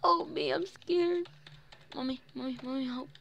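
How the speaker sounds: hammed-up cry for mommy; mock scared child. Mock fear calling mommy.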